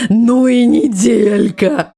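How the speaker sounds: slow, laughing sigh of a line. Real, not acted. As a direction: chuckle through it wearily. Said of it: "rueful echo". (со смешком, устало)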